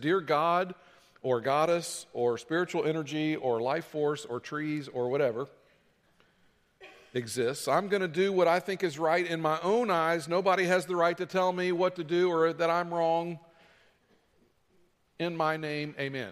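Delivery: plain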